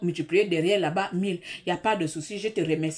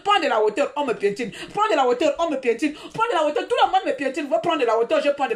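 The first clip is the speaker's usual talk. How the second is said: each repeat louder and higher, building to a near shout; mounting indignation; 5 semitones higher, 3 dB louder than usual. Real, not acted. Venting to viewers about being trampled, building angry refrain. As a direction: hammer the refrain harder each time. Repeating advice she resents.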